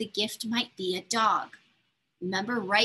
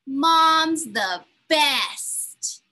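excited praise; 5 semitones higher, 7 dB louder, much slower than usual. Acted. Kids praising Mom.

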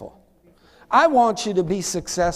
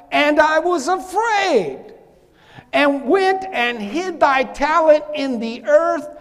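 slow, raised preacher's verse reading; scripture reading; 5 semitones higher, 4 dB louder, slower than usual. Acted. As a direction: read the verse out slowly to the congregation. Reads the servant's verse aloud.

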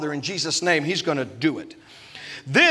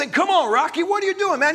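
Rocky trainer voice; 10 semitones higher than usual. Retold or imitated. Preacher imitating a boxing movie trainer, mock yelling. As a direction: bark like a corner man. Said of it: "And he says".

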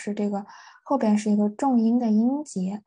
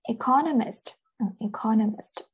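"economist" stressed on its second syllable, -co-; stress moved earlier. Shown as a demonstration. Teacher showing stress moving forward, "economist" stressed on -co-. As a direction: hit -co- in "economist". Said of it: "这个重音是往前了".

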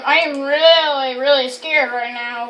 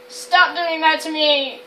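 scared laughing; 3 dB quieter than usual. Real, not acted.

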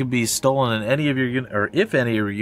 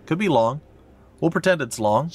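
arena announcer; 6 semitones higher than usual. Acted. Announcer reading arena introduction.

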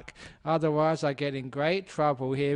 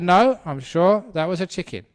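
louder, higher quarrelling wife; mock insistent wife; 4 semitones higher, 10 dB louder than usual. Wife contradicting her husband about the bird, mock insistence. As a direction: argue back in a raised voice.

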